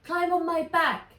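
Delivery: high, loud urgent shout; dragon shouting. A narrator's reading. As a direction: shout the order. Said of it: "he shouted".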